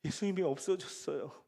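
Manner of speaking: softly and matter-of-fact, a mild calm; understated, too calm for an angel; calm, unbothered. Acted. Mary answering the angel, mildly too calm. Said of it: "너무 태연하게 얘기합니다".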